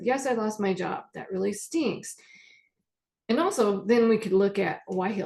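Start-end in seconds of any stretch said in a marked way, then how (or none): 0.0-2.2 just state it and let it be; calm, neutral acceptance. Pretend. Therapist modelling a client's calm acceptance of being fired. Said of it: "more in the neutral space of".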